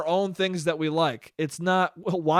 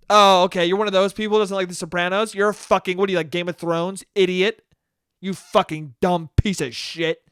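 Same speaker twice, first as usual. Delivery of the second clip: mock-offended fan's sneering put-down; scoffing. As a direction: scoff at their taste in pretend contempt. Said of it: "to have someone scoff at you".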